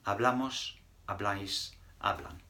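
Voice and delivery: "Hablamos, habláis, hablan" said clearly for repeating; teacher model. Shown as a demonstration. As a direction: model the plural forms. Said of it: "now we're going to do the plural".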